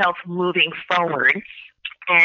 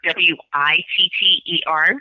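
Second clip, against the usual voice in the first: spelling it out. Shown as a demonstration. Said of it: "So I'll spell it slowly".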